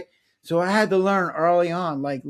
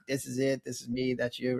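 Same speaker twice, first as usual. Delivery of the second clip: flat compartmentalizing; 4 semitones lower, 10 dB quieter than usual. Retold or imitated. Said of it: "men kinda compartmentalize, like".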